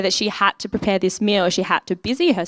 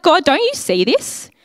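high, slow, whiny complaint to God; mock-frustrated, drawn out; exasperated plea; 8 semitones higher than usual. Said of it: "It's like".

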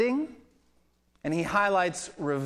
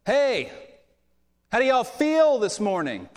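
loud, high-pitched hype to the congregation; imitated peppy worship leader, pitched up; worship leader greeting; 8 semitones higher, 4 dB louder than usual. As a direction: fire up a crowd from the microphone. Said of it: "he starts out like this".

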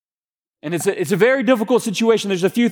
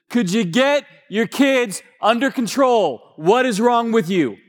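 raised, scolding voice in a hushed terminal; loud rebuke; 5 semitones higher than usual. Retold or imitated. A fed-up passenger scolds the dad, raised pitch. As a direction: call it out so the whole room hears. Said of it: "he says with a loud enough voice".

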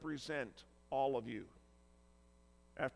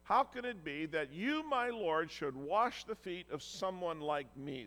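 shocked disbelief; 4 dB louder than usual. Retold or imitated. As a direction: let the shock climb on my Lord. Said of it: "express the shock that Peter felt".

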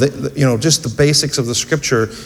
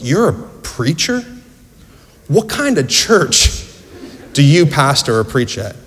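a lightly voiced disbelieving diner owner, pitched up on "You're a preacher?"; incredulous; 3 semitones higher than usual. Diner owner Harry, amazed that his customer preaches, asking in light mock disbelief. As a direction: ask it in half-acted disbelief, drawn out slowly on "What kind of church". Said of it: "with this incredulous look".

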